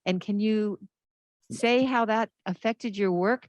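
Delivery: muffled behind a mask; talking through a mask; through a face mask. Real, not acted. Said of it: "with my mask on".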